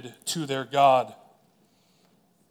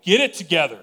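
a mildly raised "Get it together", loudness up, pitch barely moved; half-hearted mock yell at the crowd; imitated yell; 3 semitones higher, 7 dB louder, faster than usual. Preacher imagining Jesus yelling at people, mild mock yell. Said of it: "Jesus should just yell".

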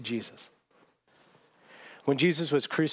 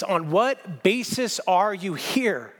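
slow, higher, mock-frustrated demand; frustrated angel; 5 semitones higher, much slower than usual. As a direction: drag out each word in exasperation. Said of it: "in frustration".

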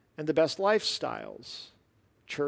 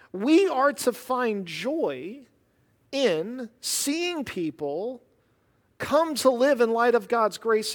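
preach; 7 semitones higher, 4 dB louder, much slower than usual. Acted. Preaching slow, raised.

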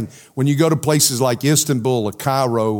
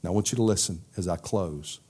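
ordinary talk, nothing marked

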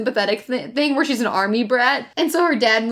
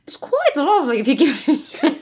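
fake British accent. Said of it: "What is that accent you're going for?".

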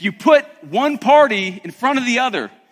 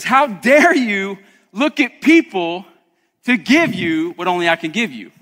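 God's rebuke, loud and pointed; voicing God's rebuke; 2 semitones higher, 4 dB louder than usual. Preacher voicing God rebuking his afraid people. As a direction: scold them as God, louder on the questions.

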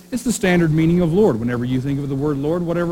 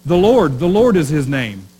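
louder proclamation, "Lord" ringing out; declaiming the verse; 2 semitones higher, 5 dB louder than usual. Retold or imitated. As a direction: read it out like a herald. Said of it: "Have you ever read this verse".

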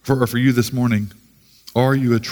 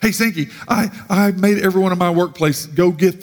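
lightly voiced acquaintance, pitched higher; imitated acquaintance; 4 semitones higher than usual. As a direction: imitate someone announcing it proudly, higher voice. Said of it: "She could have said it the oppo".

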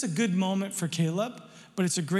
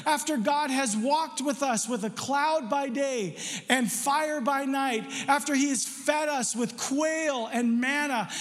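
higher, fervent preaching as Caleb; Caleb rallying the people; 4 semitones higher than usual. Acted. Caleb urging the frightened people to take the land, higher and fervent. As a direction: fire up the crowd with faith. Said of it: "Caleb said".

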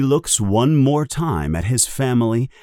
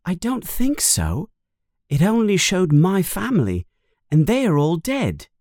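lightly acted boy, pitched higher; Harry's doubtful voice; 7 semitones higher than usual. A narrator's reading. Narrator voices Harry answering Ron.

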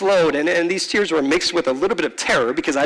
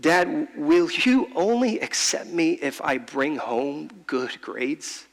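hurt plea; 4 dB quieter, slower than usual. Retold or imitated. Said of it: "the words that came out".

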